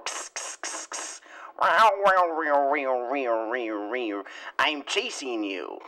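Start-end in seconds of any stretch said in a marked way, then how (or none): 0.0-1.2 cat hiss. Pretend. Cat hissing at prey. 1.6-4.2 meowing, fading. Pretend.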